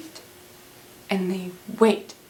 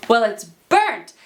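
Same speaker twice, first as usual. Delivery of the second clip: disgusted complaint; 5 dB louder than usual. Retold or imitated. Petruchio rejects the dinner.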